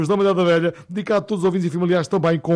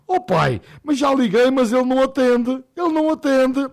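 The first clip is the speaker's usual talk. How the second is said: whiny daughter; 6 semitones higher than usual. Retold or imitated. Daughter complains to father.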